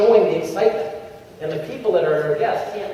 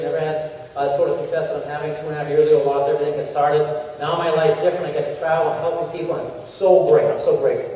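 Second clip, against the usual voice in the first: brisk, upbeat short testimonial; quick and brief; 2 semitones lower than usual. Shown as a demonstration. Trainer models a short, upbeat testimonial. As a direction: keep it punchy and moving. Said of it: "So it's quick".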